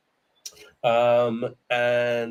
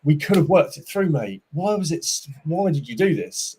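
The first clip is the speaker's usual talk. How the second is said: retold frustration; 3 semitones higher than usual. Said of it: "you're getting frustrated, going".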